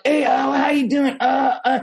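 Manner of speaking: high, put-on friendly cat voice; mock-friendly cat. Cat sidling up before knocking things off, high mock-friendly voice. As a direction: voice a cat feigning innocent friendliness. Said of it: "looks like he's all friendly".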